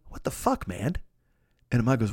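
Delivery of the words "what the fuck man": hushed whisper to friend; whispered aside. Retold or imitated. Diner whispering to his friend about the rude waiter. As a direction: whisper it so the waiter can't hear. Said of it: "I look at Ahmad and I go".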